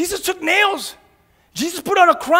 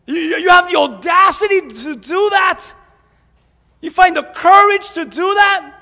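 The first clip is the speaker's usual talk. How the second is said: fiery rebuke from the pulpit; preaching at full force; 2 semitones higher than usual. Acted. Preacher scolding his church, fiery and raised.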